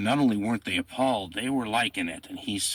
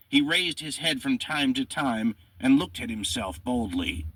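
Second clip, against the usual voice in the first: higher-pitched, emphatic reading of an account; dramatic quote reading; 5 semitones higher than usual. A narrator's reading. History host quoting an execution account, dramatic reading. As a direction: read it out like a vivid eyewitness report.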